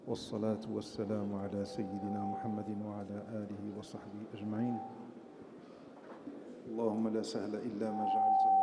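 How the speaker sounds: even, measured opening invocation on a level pitch; Arabic prayer recitation. Real, not acted. (invocation récitée, posée et recueillie)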